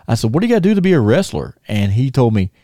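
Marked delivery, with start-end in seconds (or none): 0.3-1.6 put-on high, fast, eager kid blurting it out; excited kid question. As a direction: rush the question out like a starstruck teen. Kid meeting his first wrestler.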